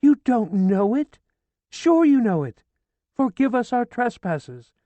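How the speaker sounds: high, loud frantic scolding; horrified shouting. A narrator's reading. Horrified widow shouting at Ferdinand to pray, frantic. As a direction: shout the prayer at him. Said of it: "She was horrified".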